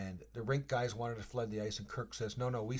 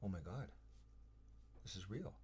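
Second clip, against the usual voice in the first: stunned awe; 3 semitones lower, 12 dB quieter than usual. Retold or imitated. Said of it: "You're just like".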